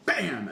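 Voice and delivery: loud, sudden mimicked impact; imitated bang. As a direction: punch it out like a puck hitting glass. Imitates puck hitting the glass.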